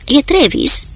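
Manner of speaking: captain shouting on deck. A narrator's reading. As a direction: shout out the name in alarm. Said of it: "strigă Marshall".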